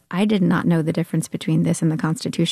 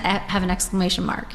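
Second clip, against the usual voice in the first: ordinary talk, nothing marked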